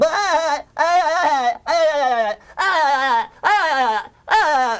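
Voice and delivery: high, rattling prolonged laughter; cartoon laugh. SpongeBob laughs endlessly after hearing the truth, cartoon laugh. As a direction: laugh on and on, hammed-up. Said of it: "he starts laughing".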